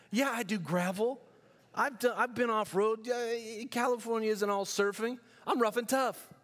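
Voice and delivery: put-on a cocky young man bragging he can handle gravel. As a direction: puff up like a city kid claiming he's rough. Bragging as California boy.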